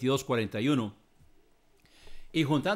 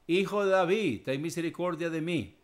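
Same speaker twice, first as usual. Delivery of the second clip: a blind man's imitated plea, raised then settling; retold crying out; 4 semitones higher than usual. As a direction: call out like the blind beggar, then ease off. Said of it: "pero él mucho más gritaba".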